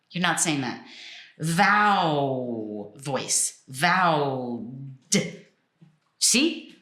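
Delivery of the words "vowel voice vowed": VOWED drawn out before a separate D; slow, low, stretched "Vowel" and "vowed"; voiced ending demo. Shown as a demonstration. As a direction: linger on the voiced sound, then tap the D of "vowed". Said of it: "you're using your voice as the last sound".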